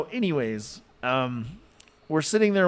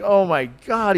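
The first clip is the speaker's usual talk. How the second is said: mildly alarmed retold exclamation, higher; freaked out; 5 semitones higher, 4 dB louder than usual. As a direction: imitate a friend's alarm, pitch raised. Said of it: "he's, like, freaked out".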